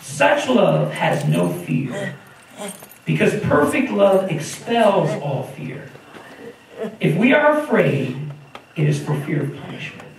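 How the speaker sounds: slow, weighty reading of the verse; solemn scripture reading. Acted. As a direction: read each phrase slowly and with weight. Reads the scripture verse aloud.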